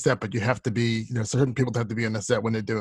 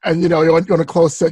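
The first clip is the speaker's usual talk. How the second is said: louder; 5 semitones higher, 9 dB louder than usual. Real, not acted. Excited telling.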